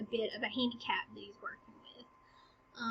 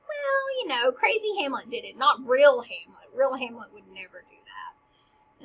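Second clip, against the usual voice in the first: put-on toddler logic; 5 dB louder than usual. Teacher mocking Hamlet's excuse as toddler theology, childish explaining. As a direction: explain it away like a little kid. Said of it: "this weird kind of toddler theology".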